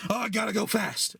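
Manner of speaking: high-pitched mock cartoon hero; Sonic. Imitates Sonic waking up.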